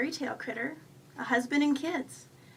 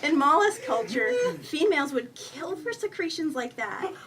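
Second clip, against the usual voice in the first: lightly voiced raccoon, pushed louder; gushing raccoon; 3 semitones higher, 7 dB louder, slower than usual. A narrator's reading. Raccoon compliments the woman's secretions, gushing. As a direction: gush with relish, stretching the big words.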